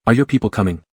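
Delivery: muffled voice. Acted. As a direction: speak as if into a shoulder. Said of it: "In a muffled voice".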